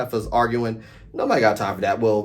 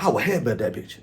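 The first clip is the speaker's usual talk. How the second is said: imitating Kandi; 3 semitones higher than usual. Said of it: "Kandi is like".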